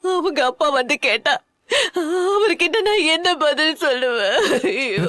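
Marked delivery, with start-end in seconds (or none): 2.3-5.1 sobbing question, falling to a wail; crying lament. Acted. Mother dreading her husband's question, sobbing. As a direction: cry out and break down.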